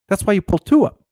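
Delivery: high, mimicked boss voice; exasperated explanation. Manager explaining shelf facing to cashier, exasperated.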